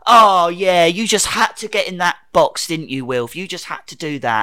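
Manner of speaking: loud, accusing outburst that eases off; mock tantrum. The Doctor having a go at Wilf, mock tantrum. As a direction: mimic a man throwing his toys out of the pram. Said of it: "throws his fucking toys out of the pram".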